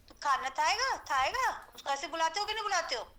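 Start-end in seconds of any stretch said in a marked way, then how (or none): 0.1-1.7 light coaxing lisp with rising questions; baby talk. Retold or imitated. Adult coaxing a small child to eat, lightly lisped. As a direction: coax a toddler to eat, mildly lisped. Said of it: "तुतला".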